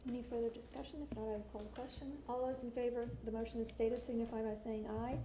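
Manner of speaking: quick procedural vote call; brisk and businesslike. Acted. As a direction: run the vote like a chair. Chair calls the vote.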